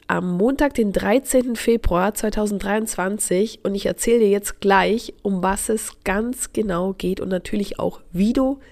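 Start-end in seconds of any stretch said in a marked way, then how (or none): 3.6-8.6 blocked nose, talking through a cold; stuffy nose from a cold. Real, not acted. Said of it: "ich spreche mit zugehaltener Nase".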